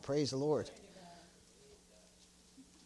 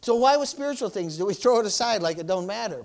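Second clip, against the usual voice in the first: loud, higher preacher's challenge; forceful preaching; 8 semitones higher, 5 dB louder than usual. Real, not acted. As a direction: preach it out with punch.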